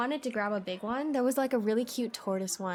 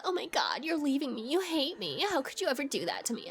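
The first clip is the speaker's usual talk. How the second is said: mock clingy whine, a little higher and faster; whiny guilt trip; 5 semitones higher than usual. Mocking the chat friend's dramatic guilt trip, lightly whiny. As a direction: ham up a needy friend begging. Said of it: "I didn't even hit you with a".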